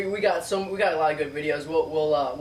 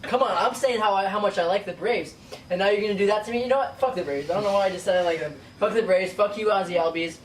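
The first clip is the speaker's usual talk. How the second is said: mock rant; 3 semitones higher than usual.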